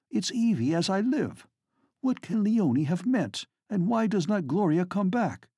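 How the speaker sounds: high-pitched urgent plea; urgent, quick. Acted. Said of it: "he says quickly".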